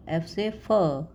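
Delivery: very slow, drawn-out "एफ से फ"; teacher spelling out "फ" slowly for pupils; slow phonics demo. Shown as a demonstration. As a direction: stretch "एफ से फ" for the class. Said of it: "जैसे हम सीखते हैं B".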